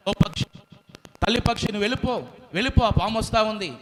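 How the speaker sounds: high, fast urgent call; monkey urging. Acted. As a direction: hurry the mother bird away. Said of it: "ఆ కోతి అంటా ఉంది".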